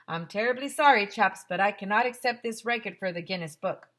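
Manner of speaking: polite, loud British refusal; regretful British official turning them down; British accent. Acted. Guinness lady rejecting the record, British accent. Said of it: "Guinness lady".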